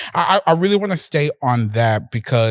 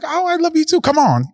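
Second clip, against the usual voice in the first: imitating a rapper; 14 semitones higher than usual. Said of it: "she was like".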